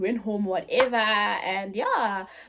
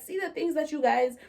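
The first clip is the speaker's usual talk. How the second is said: put-on slightly raised scolding of the kids; retold shouting; 3 semitones higher, 3 dB louder than usual. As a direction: imitate a shocked mother telling off teenagers. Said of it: "she's shouting at us".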